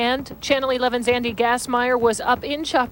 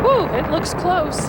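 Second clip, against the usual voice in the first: drawn-out awed woo, high and slow; excited; 7 semitones higher, slower than usual. Real, not acted. Reacting to live implosion view.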